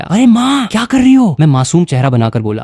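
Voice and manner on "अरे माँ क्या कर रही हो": cry of pain. A narrator's reading. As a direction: yelp it out as the kick lands. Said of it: "मैं दर्द से चिल्लाया". (लात लगने पर माँ से दर्द भरी ऊँची चीख)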